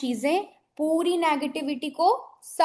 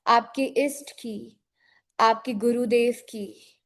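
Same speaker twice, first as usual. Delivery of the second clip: guided meditation. Acted. Guides a visualization.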